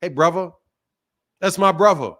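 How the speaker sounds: "brother" the British way, with a V for the TH; British "bruvva". Retold or imitated. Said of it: "I've been called brother".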